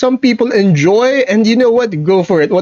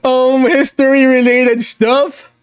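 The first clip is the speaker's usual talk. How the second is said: unhinged gremlin; 5 semitones higher than usual. Pretend. Streamer warning viewers they are done holding back, unhinged. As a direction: let loose in a raised, stretched-out gremlin voice. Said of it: "We're going off all unhinged".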